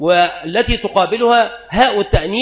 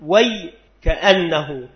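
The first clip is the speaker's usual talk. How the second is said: slow example; much slower than usual. Shown as a demonstration. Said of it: "وأصلها".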